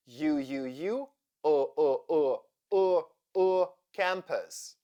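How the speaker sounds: U repeated, then UH repeated, into campus; schwa drill. Shown as a demonstration. Teacher drilling the unstressed second syllable of campus, schwa drill. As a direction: drill U turning into a neutral UH before campus. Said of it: "U sounds like".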